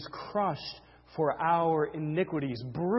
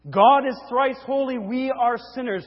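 raised, urgent pulpit delivery; forceful preaching; 7 semitones higher, 9 dB louder than usual. Real, not acted. Preacher telling sinners they are at war with God, forceful preaching. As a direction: press each short statement home.

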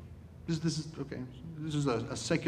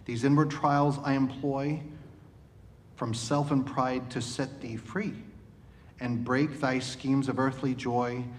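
measured, solemn reading of a hymn poem; poem recitation. Acted.

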